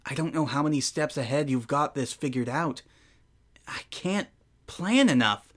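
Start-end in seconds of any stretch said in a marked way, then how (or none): 3.7-5.5 higher, anxious whisper; panicked whisper. Acted. Flustered player losing at chess, whispering. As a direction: breathe it out in a rising panic.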